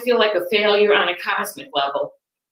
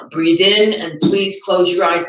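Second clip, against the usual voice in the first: New York meditation voice; slower than usual. Retold or imitated. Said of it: "a New York guided meditation".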